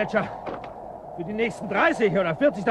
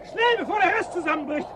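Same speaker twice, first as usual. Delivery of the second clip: urgent; 6 semitones higher than usual. Acted. Urging escape from collapse.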